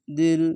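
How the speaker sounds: দিল with the final l held; held lam. Shown as a demonstration. Teacher showing where to catch lam, দিল ending on a held l. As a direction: sustain the closing l of দিল. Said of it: "এখানে লামকে ধরবে".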